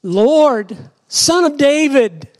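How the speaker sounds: high-pitched plea called out; crying out. Acted. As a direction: call out to him from afar, pitched high. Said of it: "crying out".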